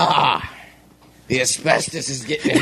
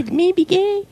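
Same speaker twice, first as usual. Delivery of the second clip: pitched way up, growling Arg like a cartoon pirate; bad pirate accent; slower than usual. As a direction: ham up a terrible pirate accent, much higher. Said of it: "That was the worst accent I've ever heard".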